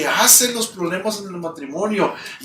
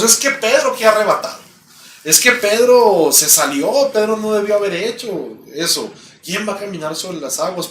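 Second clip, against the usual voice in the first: mocking critics. Preacher mimics churchgoers judging Pedro, a scornful tone. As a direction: scoff at Pedro like a doubter. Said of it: "Y decimos".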